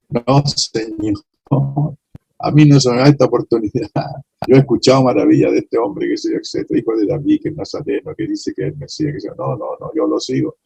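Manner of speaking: a hint of the blind beggar crying out to Jesus; pleading blind man. Blind man's plea, voiced.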